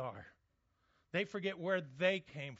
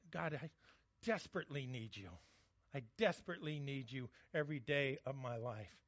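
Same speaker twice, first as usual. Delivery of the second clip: softer, quieter lightly voiced prayer; humble plea; 4 semitones lower, 4 dB quieter than usual. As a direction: plead gently with God.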